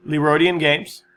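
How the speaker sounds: hushed aside naming "Leroydian Games"; whispered correction. Shown as a demonstration. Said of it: "Not Games House".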